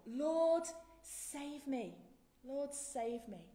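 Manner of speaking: loud desperate cry to the Lord. Acted. A drowning Peter cries out loud to Jesus, desperate. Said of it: "he cries out".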